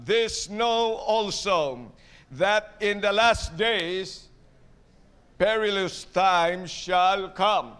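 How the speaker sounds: solemn, unhurried Bible reading; slow scripture reading. Acted. Preacher reads the verse to the congregation, slow and solemn. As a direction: read the verse slowly, each phrase weighed.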